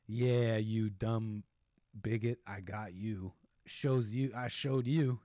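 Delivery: low, drawn-out mock gloating; imagined smug gloating. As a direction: relish it slowly as a smug officer's thought. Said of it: "that she's thinking".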